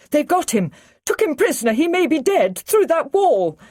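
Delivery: high, loud, panicked outburst; hysterical. Acted. Liz clinging to the Brigadier after the kidnapping, hysterical high cries. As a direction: blurt it out in terror, pitched high. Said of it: "She's got hysterics".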